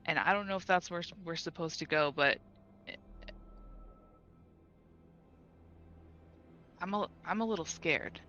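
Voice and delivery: halting, with long searching pauses; shaken, a little scared. Acted. Character reporting a frightening vision, hesitant and mildly scared. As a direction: recount it haltingly, understated unease. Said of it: "and just goes".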